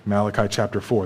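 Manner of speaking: ordinary delivery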